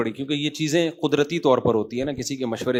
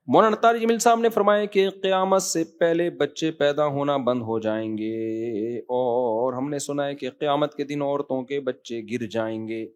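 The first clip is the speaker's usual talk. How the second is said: drawn-out question reading; slower than usual. Acted. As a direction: chant the question out, dragging the last words. Reads out a listener's question.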